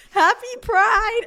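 high, slow, sing-song Happy Pride; mock chirpy greeting. Retelling her partner's odd greeting mid-sex, high and sing-song. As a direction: chirp it out brightly and slowly. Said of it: "when he's like".

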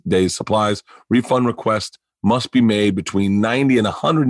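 smooth podcast sponsor read. Acted. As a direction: sell it like a host-read ad. Host reads a sponsor ad.

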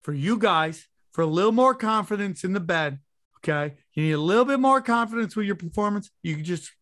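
hammed-up sponsor ad read. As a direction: sell it like a cheesy radio spot. Reads a sponsor ad.

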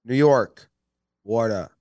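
"Wada" as New York "waw-da"; New York accent. Shown as a demonstration. Host giving an accent lesson, New York accent. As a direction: demonstrate New York-accent water, rounded vowel. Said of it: "teach you how to do accents".

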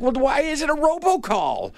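high-pitched retold challenge; indignant question. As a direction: push the question up high, baffled. Retold challenge to the bank caller.

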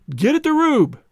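high, loud rallying shout; booming call. A narrator's reading. Bison captain booming at his players to get the Rube. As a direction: boom it out to rile the team. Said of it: "boomed Ellis".

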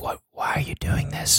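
baffled question in a whisper. Shown as a demonstration. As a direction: ask it in a mock ASMR whisper. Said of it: "I don't wanna hear you whispering".

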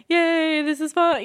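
high, token little cheer; mock cheer. Shown as a demonstration. Voice actor demonstrating what not to do, mock cheer. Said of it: "You can't just stand there going".

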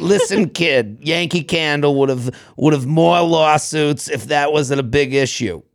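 put-on lightly done Boston accent. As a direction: talk like a Southie guy. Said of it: "I'll read it in a Boston accent".

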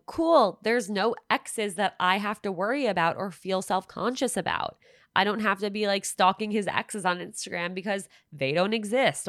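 high, bright relieved rush; excited inner thought. Retold or imitated. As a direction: gush it out with relief.

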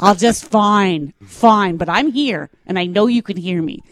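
sulky dog voice. Retold or imitated. Voicing the dog's sulky thoughts.

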